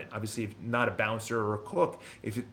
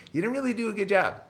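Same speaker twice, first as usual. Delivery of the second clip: sister's mock scolding; 8 semitones higher than usual. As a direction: imitate the sister's put-down, higher. Sister criticizing him, voiced.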